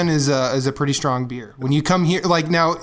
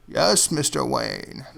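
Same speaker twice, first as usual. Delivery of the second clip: Deckard Cain voice; 3 semitones lower, 4 dB quieter, much slower than usual. Retold or imitated. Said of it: "really going for that Deckard Cain impersonation".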